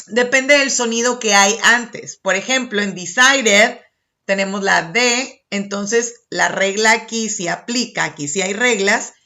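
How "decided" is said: DECIDED with a sounded final 'ed' syllable; pronounced ED ending. Shown as a demonstration. Teacher explaining the rule applies, DECIDED with its 'ed' fully sounded. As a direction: say the full -ed at the end of DECIDED. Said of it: "es que lo tenemos que pronunciar".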